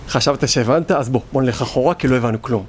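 lightly voiced, low inner doubter; small-mindedness speaking. Small mind tells you to go back, low dismissive voice. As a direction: drop low, as a deflating inner voice. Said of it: "זה מה שמוח דקטנות אומר".

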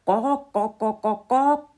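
loud, high cluck-cluck of a hen. Acted. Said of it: "machte Steffi".

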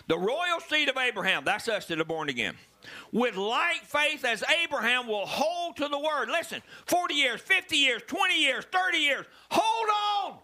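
rally the church to hold on; building preaching. Acted. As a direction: pulpit crescendo ending in a shout. Preaching climax, shout.

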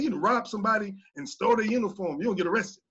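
fast, stern retold warning; tough. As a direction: rattle off a tough, no-joke accusation. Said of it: "I actually said it pretty tough".

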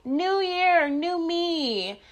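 high, mocking imitation of resolution people; mocking impression. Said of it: "I cannot stand when people are like".

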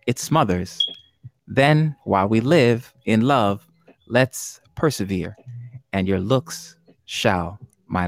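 slow, measured verse recital; unhurried quiz-host poetry reading; poem reading. Acted. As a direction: read each line slowly, pausing between phrases.

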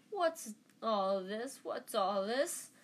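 slow, booming showman's question; lightly hammed-up busybody, rising at the ends; pompous Lockhart. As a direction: arrive grandly with drawn-out questions.

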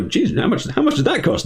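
high astonished Joker. Retold or imitated. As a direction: gasp at the price. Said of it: "Joker's like".

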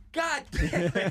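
high, drawn-out exasperated curse; slow, strained mock-angry cry; mock fury. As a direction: imitate a man at the end of his rope. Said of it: "He's getting progressively pissed off".

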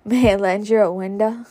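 breaking into a laugh; laughing while reading. Real, not acted. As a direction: giggle through the line. Reader laughs at own slip.

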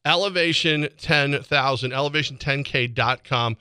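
brisk station and sponsor read; fast radio read. Acted. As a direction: announce it like a radio tag.

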